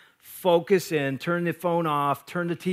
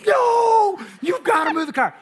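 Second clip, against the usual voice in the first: much higher, louder hammed-up order; mock shouted no; 14 semitones higher, 4 dB louder than usual. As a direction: shout the order at the wife in jest. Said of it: "I'm like".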